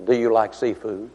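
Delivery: low, reverent put-on preacher tone; most spiritual voice. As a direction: imitate a solemn preacher, pausing after the name. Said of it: "in his most spiritual voice".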